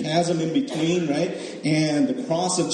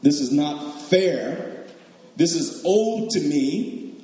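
put-on slow, indignant older son; a touch of resentful entitlement; mock entitled complaint; much slower than usual. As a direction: drag out the grievance. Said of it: "he said this".

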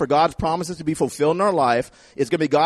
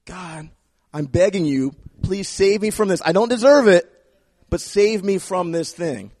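pleading prayer. Pretend. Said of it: "Mercy is".

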